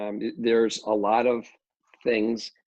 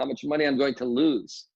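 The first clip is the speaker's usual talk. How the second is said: put-on Polish accent; 3 semitones higher than usual. Developer quoting his mentor's warning about money, in a Polish accent. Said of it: "his Polish accent".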